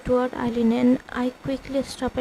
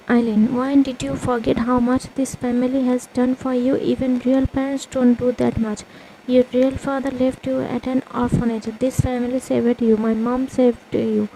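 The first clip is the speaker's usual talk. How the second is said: scolding sister; 4 dB louder than usual. Acted. Sister scolds narrator harshly.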